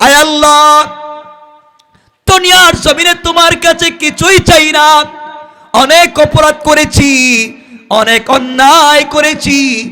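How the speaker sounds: high, loud, slow weeping, pleading wail. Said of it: "এইভাবে কাঁদতেছে".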